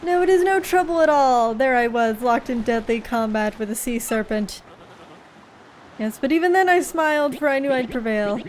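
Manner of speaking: a proud sailor boasting of his battles, lightly voiced; boastful storyteller voice. Boastful sailor telling his crew a sea tale. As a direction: puff up and spin the tale grandly.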